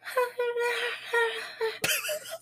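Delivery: put-on high, soft eerie child sound; faint high-pitched imitation of a kid's noise; eerie little high wail; imitated ghostly kid noise. Imitates the noise heard at night.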